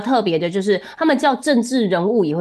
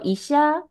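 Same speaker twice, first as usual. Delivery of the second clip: 一下 held on a level, raised pitch; flat pitch accent; 6 semitones higher than usual. Shown as a demonstration. Teacher models the word for doctor, 一下 flat. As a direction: say 一下 evenly, no drop. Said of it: "要念平板型".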